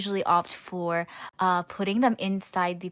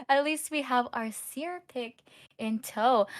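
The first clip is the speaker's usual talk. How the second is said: laughing; 6 semitones higher than usual. Real, not acted. Still laughing after joke.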